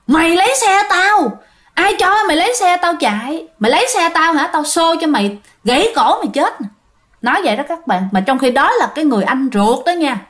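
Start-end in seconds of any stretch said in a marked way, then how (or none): 0.1-6.7 higher, shrill-free menacing spirit threat, lightly voiced; angry ghost voice. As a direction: snarl it like a vengeful ghost in his ear. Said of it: "la hét vô lỗ tai". (giọng hồn ma giận dữ, cao hơn)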